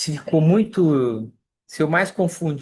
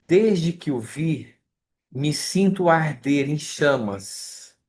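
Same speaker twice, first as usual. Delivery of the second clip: slow, tender lyric recitation, each phrase set apart; slower than usual. Acted. Teacher recites lyrics to the study group, slow and tender. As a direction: lingers over the verses as if reciting a poem.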